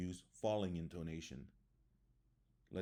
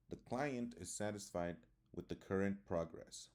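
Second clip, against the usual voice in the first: statement settling down on "progress"; falling intonation. Shown as a demonstration. Teacher reading a statement example, falling intonation. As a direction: let the pitch fall at "current progress". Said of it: "That's a statement".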